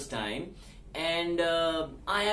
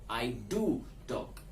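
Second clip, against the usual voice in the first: slow, lower "I do talk", "do" drawn out; stress on "do"; 5 semitones lower, 3 dB quieter, slower than usual. Shown as a demonstration. Teacher shows primary verb first, stressing "do". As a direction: stretch "do" before "talk". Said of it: "So to stress the second verb".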